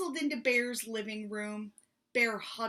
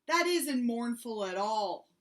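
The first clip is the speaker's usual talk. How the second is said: cried out; 3 semitones higher, 6 dB louder than usual. Acted. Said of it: "cried Bear".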